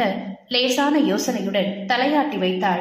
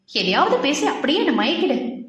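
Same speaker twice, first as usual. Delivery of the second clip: playful, fond complaint; affectionate pouting; 3 semitones higher than usual. Acted. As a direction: chide him sweetly with a pout. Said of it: "செல்லமாக நொடித்தாள்".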